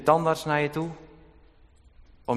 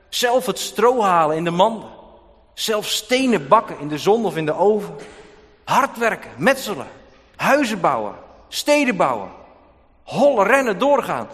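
loud, driving, raised list of toil; fervent preaching; 6 semitones higher, 6 dB louder than usual. Acted. Preacher paints Egyptian slavery for the church, loud and driving. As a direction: pile up the hard labour with growing force.

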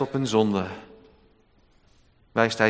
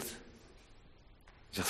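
whispered; 27 dB quieter than usual. Real, not acted. Hushed lead-in to prayer.

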